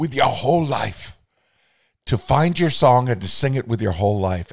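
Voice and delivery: imitated Austrian accent. Quoting a woman's advice, in her Austrian accent. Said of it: "She had such an Austrian accent".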